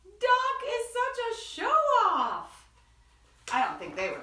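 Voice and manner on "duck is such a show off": pigs' thoughts. Acted. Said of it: "what they thought was".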